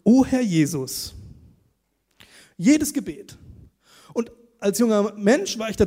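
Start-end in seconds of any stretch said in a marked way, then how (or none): 0.0-1.1 prayer phrase. Retold or imitated. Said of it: "da fing jedes Gebet an mit".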